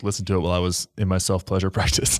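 breaking into a laugh mid-phrase; can't keep straight face. Real, not acted. Man joking to co-host about her podcast, failing to keep a straight face. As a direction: try to say it seriously, then crack up. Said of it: "you can't even say that with a straight face".

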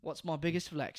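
lightly echoed mock Aussie; mimicked Australian accent. Sidekick parroting the host's question, mimicked Australian accent. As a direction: copycat with a hint of Australian. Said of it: "I don't know why I mimicked you after".

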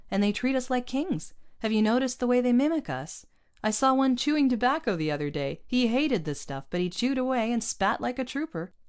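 a hint of an agitated colonist; Mario voiced. A narrator's reading. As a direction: give Mario some mild bluster. Mario voiced complaining about Dusties.

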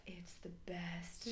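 breathy hushed whisper. Retold or imitated. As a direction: whisper it with quiet satisfaction. Husband quoted, content with cat.

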